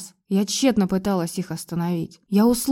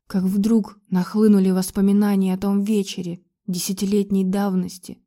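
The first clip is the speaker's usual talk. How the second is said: ordinary talk, nothing marked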